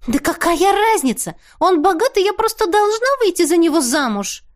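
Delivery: высокий капризный голос; выше, с вызовом; Теа капризничает. A narrator's reading. (Теа выше, капризно)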